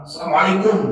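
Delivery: loud, flat salam with no tenderness; loud blunt greeting. Shown as a demonstration. Husband calling salam at the door, loud and blunt. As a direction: bark the greeting like a routine call. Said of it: "Enggak begitu".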